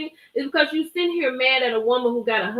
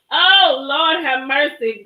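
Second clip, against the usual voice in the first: Lord have mercy; 2 semitones higher, 5 dB louder, slower than usual. Real, not acted. Reacting to gossip on live.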